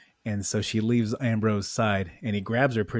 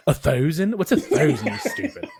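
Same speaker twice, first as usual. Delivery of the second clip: louder, laughing, mimicking the odd "thousand"; mock baffled retort; 3 semitones higher, 4 dB louder than usual. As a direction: demand it incredulously while breaking into laughter. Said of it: "what if she stopped and said".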